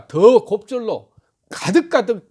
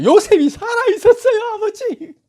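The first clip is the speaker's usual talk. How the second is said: much higher, laughing with joy; joyful outburst; 6 dB louder than usual. Acted. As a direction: burst out with the good news, laughing. Brothers telling Jacob the news.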